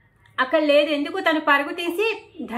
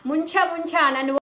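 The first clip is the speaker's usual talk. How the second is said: mock scream; 2 semitones higher than usual. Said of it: "అనేసి అరుస్తుంది".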